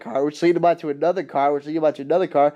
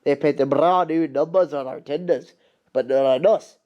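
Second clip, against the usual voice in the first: light Scottish accent, lightly put on; a hint of a Scottish railwayman; Scottish brogue, understated. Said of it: "that's my Donald Douglas voice".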